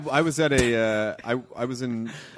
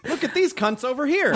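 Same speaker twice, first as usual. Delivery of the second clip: higher cheeky British yob voice; rude British lad; 12 semitones higher than usual. Pretend. Comedian nails a British lad impression for the table. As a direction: sneer it like a London lad. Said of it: "And we have a winner".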